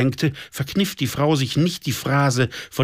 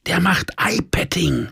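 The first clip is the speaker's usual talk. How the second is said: higher, whispered aside to a partner; 6 semitones higher than usual. A narrator's reading. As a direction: whisper it across the table. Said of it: "flüsterte meine Süße". (geflüstert)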